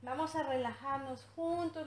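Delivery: put-on soft and slow, soothing a crying baby; sweet soothing voice. Shown as a demonstration. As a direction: coo gently to calm the baby down. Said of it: "hablarle con una voz dulce".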